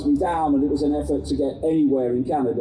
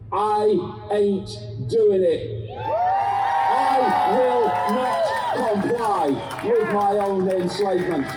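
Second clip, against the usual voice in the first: defiant declaration; 5 semitones higher than usual. Retold or imitated. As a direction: stand your ground and refuse. Voicing the defiant group.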